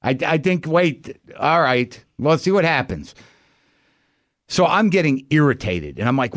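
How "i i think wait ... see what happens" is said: a light hint of a fretful old Jewish man; hedging like a doubtful old Jewish navigator; old Jewish GPS voice. Imagining a GPS that doubts itself, lightly voiced old Jewish man. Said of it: "an old Jewish voice on the G P S that goes".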